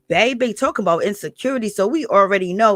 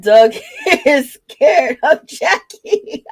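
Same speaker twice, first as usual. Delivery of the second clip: laughing; 6 semitones higher, 5 dB louder, much slower than usual. Real, not acted. Reading comment, cracking up.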